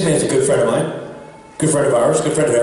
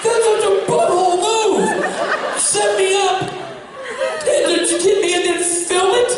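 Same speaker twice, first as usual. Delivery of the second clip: indignant rant pitched way up; mock outraged rant; 12 semitones higher than usual. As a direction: act out the outrage, high and hammed-up. Retold outburst at the pranksters.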